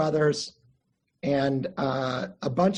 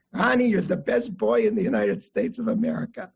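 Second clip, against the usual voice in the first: lightly imitated Russian-accented grandfather; 2 semitones higher than usual. Grandfather insisting to his trapped grandson, imitated Russian accent. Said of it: "say in his Russian accent".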